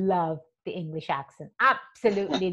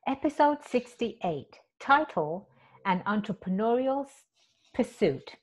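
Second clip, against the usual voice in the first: stumbling first take; 3 semitones higher, 4 dB quieter than usual. Shown as a demonstration. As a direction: read it haltingly, tripping over the title. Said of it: "Let me say that again".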